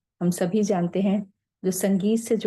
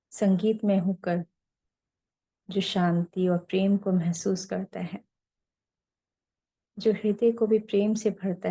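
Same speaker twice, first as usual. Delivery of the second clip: unhurried meditation leader, long pauses between phrases; guided meditation. Real, not acted. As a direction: lead them gently into silence, phrase by phrase.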